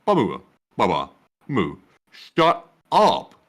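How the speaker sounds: deadpan read of silly animal noises. Pretend. Co-host reading a viewer's super chat full of animal noises, deadpan. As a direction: read the moos and meows straight-faced. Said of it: "the way I read that added to the effect".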